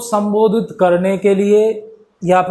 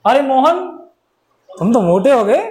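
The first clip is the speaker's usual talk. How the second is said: put-on higher, bright call to an old friend; lively greeting; 4 semitones higher than usual. Shown as a demonstration. Greeting Mohan, a friend who got fat, lively call. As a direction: greet Mohan with real expression. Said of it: "बोलने का एक लहजा होता है अपना".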